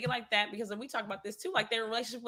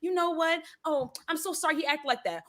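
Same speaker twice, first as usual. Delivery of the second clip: imitating a mother's apology to a teacher, slightly raised pitch; apologetic mama; 5 semitones higher than usual. Mama apologizing to the teacher for her son, mock polite. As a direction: put on a polite parent voice.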